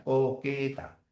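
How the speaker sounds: "Co-que-ta", softly drawn out; syllable by syllable. Shown as a demonstration. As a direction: sound out "Coqueta" quietly in stretched syllables. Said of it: "La transcripción sería así".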